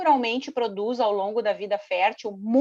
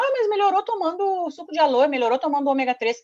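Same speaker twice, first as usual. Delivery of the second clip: pessoas comentando, imitadas; 6 semitones higher than usual. Retold or imitated. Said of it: "E aí as pessoas falam".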